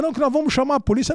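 fast, high retold insistence; desperate wife. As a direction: act out a frantic wife insisting. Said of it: "a mulher lá tá desesperada".

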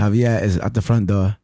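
imitated Australian assistant accent; Alexa. Assistant announcing someone at the door, Australian accent. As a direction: announce it with Australian vowels, r's dropped. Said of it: "My choice of voice for Alexa is Australian".

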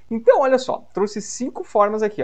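lively teacher intro; upbeat. Real, not acted. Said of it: "lesson host energy". (empolgado, mais alto e agudo)

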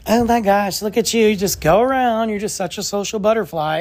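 hint of a doting suburban mom cooing at her kid; mild mock gush from a phone-scrolling mom; typical Frisco mom. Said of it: "just being a typical Frisco mom".

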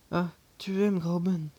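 absent, automatic repeat of the question; mechanical repeat. A narrator's reading. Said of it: "reprit-il machinalement".

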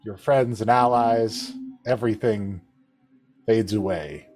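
normal talking voice

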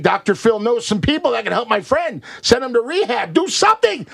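whining plea for help; high-pitched begging tone; mock pleading. Pleading on friend's behalf.

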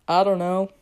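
level, monotone delivery; deadpan monotone. Retold or imitated. Podcaster answering a little girl's question, deadpan monotone. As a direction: answer with no inflection at all. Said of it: "in the most monotone voice that I could muster".

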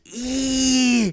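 high, loud drawn-out "eee"; imitated "Ee!" catchphrase. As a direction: squeal a long high northern "eee". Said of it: "He gets me every time he goes".

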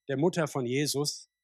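ordinary talk, nothing marked

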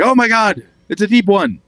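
mock panic. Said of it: "until you're like".

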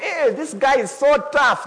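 high, loud, slow impressed voice; mock admiration. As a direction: imitate mates marvelling. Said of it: "they don't look and say".

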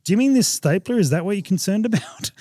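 high, disbelieving retold question; mock incredulous question. Traveller questions baggage handler over stapler, mock incredulous. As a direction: query it as if it's too silly.

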